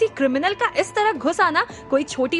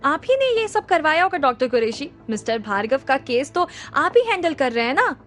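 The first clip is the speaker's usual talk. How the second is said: said loudly. Acted. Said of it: "जोर से बोला".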